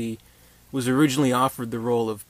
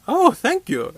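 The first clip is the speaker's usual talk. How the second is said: much higher mock woman's voice; flattered woman; 8 dB louder, slower than usual. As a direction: squeak out a coy thank you. Woman answers, voiced in retelling.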